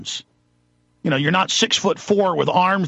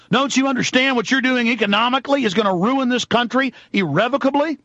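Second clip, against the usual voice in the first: heated rant; 4 semitones higher than usual. Real, not acted. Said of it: "I said I wasn't gonna rant today".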